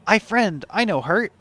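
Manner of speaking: high cautious little voice; nervous sleepy possum. Pretend. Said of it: "opossum voice".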